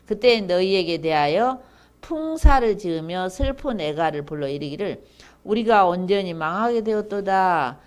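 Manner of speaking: loud, declaimed Bible reading; projected, solemn recitation of scripture. Acted. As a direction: read the prophecy out firmly to a congregation. Reads scripture aloud to the class.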